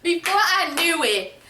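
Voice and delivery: words broken up by real laughter; can barely get it out for laughing; laughing through it. Real, not acted. Mother laughing while telling her own fall.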